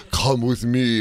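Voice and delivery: lightly voiced Dracula accent; a hint of a Transylvanian vampire accent. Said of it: "What's with your stupid accent?".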